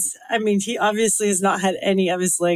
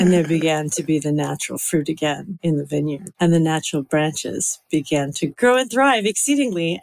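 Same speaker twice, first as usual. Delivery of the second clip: lower, attempted sultry reading; understated sexy scripture reading; 5 semitones lower than usual. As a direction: drop the pitch for a sexy voice. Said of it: "She just gets quieter".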